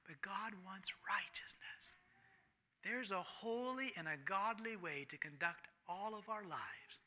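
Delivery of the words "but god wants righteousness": slow it down and whisper it; a slow secret told to the flock; hushed slow whisper. Real, not acted. Preacher whispering the key point to the congregation, slow and hushed. Preacher drops to intimate aside.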